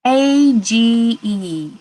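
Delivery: slow letter by letter; spelled out slowly. Shown as a demonstration. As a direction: spell each letter clearly. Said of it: "I see the word age".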